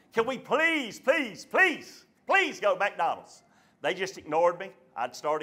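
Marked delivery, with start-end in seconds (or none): 0.1-3.4 repeated begging, each please stressed; pleading. Retold or imitated. Son pleading his case from the car, pleading. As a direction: beg like an insistent kid. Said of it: "I started pleading my case".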